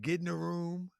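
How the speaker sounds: mocking call, high and loud; Tariq Nasheed. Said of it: "as Tariq Nasheed said".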